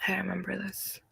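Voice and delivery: soft unvoiced whisper. Real, not acted. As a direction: whisper it to yourself. Quiet aside after recognition.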